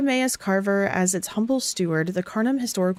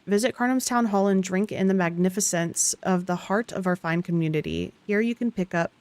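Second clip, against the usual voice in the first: yawning through the words. Real, not acted. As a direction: speak mid-yawn. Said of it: "once I start yawning".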